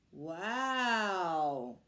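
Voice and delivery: breathless amazed wow; amazed at the blue egg; gasped wow. A narrator's reading. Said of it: "gasped Rupert".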